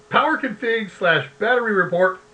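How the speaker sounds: reading through hiccups; hiccuping. Real, not acted. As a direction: hiccup while you talk. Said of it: "sorry, hiccuping".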